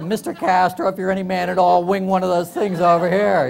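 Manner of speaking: loud, hammed-up challenge called out; mock rooftop dare. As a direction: call it out like a mock dare from a roof. Neighbor dares Castro from rooftop.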